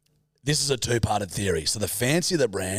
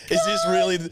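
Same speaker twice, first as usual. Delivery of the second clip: much higher mock-outraged old lady; nanny protesting her send-off; dying nanny complaining; 6 semitones higher than usual. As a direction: whine it in disbelief. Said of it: "she's just lying there going".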